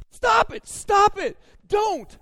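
very high and loud mock yelling; hammed-up panicked husband; pleading shout. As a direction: beg her to stop like a fan covering his ears. Begging wife not to spoil.

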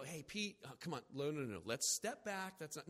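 soft, low soothing talk; calm him down gently; gentle coaxing. Retold or imitated. Jesus soothing Peter, soft and low. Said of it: "Jesus didn't go".

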